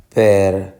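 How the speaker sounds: perdóname as per, do, na, me; syllable by syllable. Shown as a demonstration. Teacher dividing perdóname for students, syllable by syllable. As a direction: pause between each syllable of perdóname.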